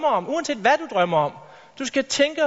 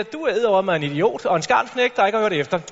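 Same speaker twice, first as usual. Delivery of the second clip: contemptuous teacher. Retold or imitated. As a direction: look down on him as you say it. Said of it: "kropssprog, der bare signalerer".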